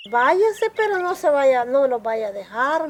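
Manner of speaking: a hint of a scared child begging her mother to stay; urgent frightened plea. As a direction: imitate the girl begging, half-frightened. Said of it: "me dice ella entonces".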